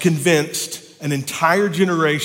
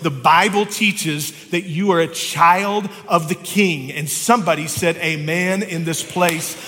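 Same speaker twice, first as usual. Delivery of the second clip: best preacher voice; 2 semitones higher than usual. Shown as a demonstration. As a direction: preach it out to the congregation. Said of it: "in my best preacher voice".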